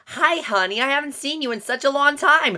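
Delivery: mock-cheery Nicolas Cage greeting; overly cheerful dad. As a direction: gush at his daughter, way too happy. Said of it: "this is literally how he greets his daughter".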